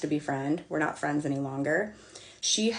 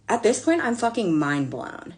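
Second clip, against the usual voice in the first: exasperated; 4 semitones higher than usual. Real, not acted. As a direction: sound fed up and stunned. Exasperated rant peak.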